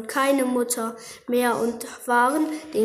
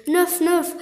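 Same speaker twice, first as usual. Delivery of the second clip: high grunting pig noises; snorting pig; 5 semitones higher than usual. Acted.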